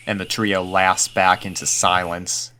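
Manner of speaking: usual speaking voice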